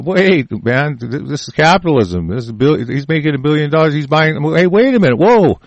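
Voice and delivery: growing alarm, played for effect; mock protest. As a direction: act out a worker calling a halt. Acting out workers starting to complain.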